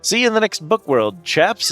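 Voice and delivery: a hint of a chirpy game guide; lightly voiced character. Game character teaching the move.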